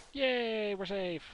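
a high, loud little cheer of relief; excited cheer. Real, not acted. Gamer cheering his finished sand shelter, high and loud. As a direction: celebrate being safe.

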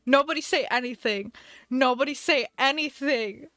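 loud, emphatic plea; mock-panicked plea. Streamer silencing chat about Chops, mock-panicked plea. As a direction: insist loudly, half in play. Begs chat not to comment.

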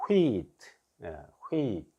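"wheat" as one hweet, long ee and crisp final t; "wheat" in a falling, isolated teaching delivery; blended pronunciation demo. Shown as a demonstration. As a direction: model "wheat" for learners, W and H run together. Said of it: "이거를 여기다 올려서".

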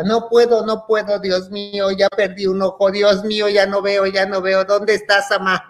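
high, continuous retold wail; hammed-up child's lament, calling for mum; crying and yelling. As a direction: wail it in mock despair. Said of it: "y yo lloraba y gritaba".

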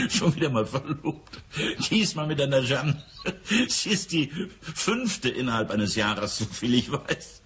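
chuckling as he talks about his brother-in-law; amused chuckle. Acted. Amused brother-in-law chuckles over fifth engagement.

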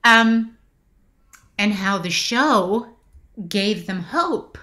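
pausing to hold back real emotion; choked up. Real, not acted. Actress moved recalling fans' stories of hardship, choked up. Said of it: "I'm getting choked up".

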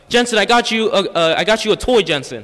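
high, loud sweet stepmom; gushing to the kid about a toy. Retold or imitated. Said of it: "She's like".

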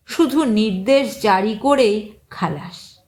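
ordinary delivery, nothing marked

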